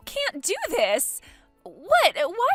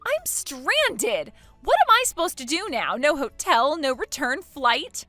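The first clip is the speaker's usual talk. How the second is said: panicked cry; 2 semitones higher, 7 dB louder than usual. Acted. Bride stranded in Hawaii, panicked cry.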